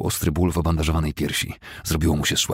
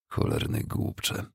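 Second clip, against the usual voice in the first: inner thought; 6 dB quieter, much slower than usual. Acted. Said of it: "pomyślał".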